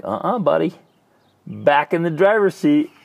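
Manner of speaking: jokey dad command; playful firm order. Retold or imitated. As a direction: cheerfully insist the kid gets back in. Dad telling son to drive.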